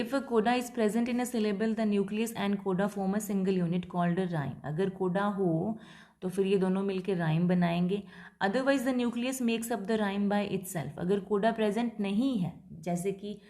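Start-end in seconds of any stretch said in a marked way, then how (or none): 0.0-4.6 reading the definition slowly, word by word; slow dictation. Shown as a demonstration. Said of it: "teacher reads English definition slowly". 8.4-11.0 slow, careful dictation of the rule. Shown as a demonstration. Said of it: "teacher dictates English line".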